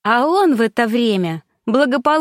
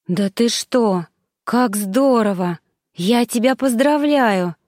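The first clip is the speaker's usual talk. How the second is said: happy; slower than usual. Acted. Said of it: "радовалась за неё Замира".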